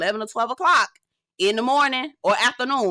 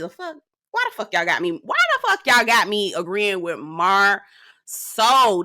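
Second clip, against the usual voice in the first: retold cussing. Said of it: "the way I was cussing".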